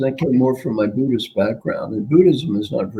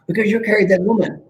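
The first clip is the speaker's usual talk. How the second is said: higher, fast accusing monk; mock accusation; 8 semitones higher, faster than usual. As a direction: snap it out, playfully. Angry monk accuses again.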